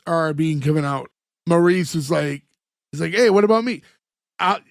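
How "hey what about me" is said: lightly voiced kid, a little raised; just a touch of the kid's voice; hint of character voice. Host quoting Maurice while resisting his accent, hint of character voice. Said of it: "tough to not do the accent".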